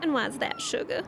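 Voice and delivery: teasing Southern belle lilt; Southern accent. Acted. Traveler teasing companion who won't do accents, in Southern accent. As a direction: needle them in a put-on Southern accent. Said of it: "Why can you do a southern accent?".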